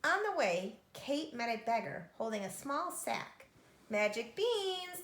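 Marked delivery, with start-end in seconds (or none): 3.9-5.0 creaky voice. A narrator's reading. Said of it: "the beggar said in a creaky voice".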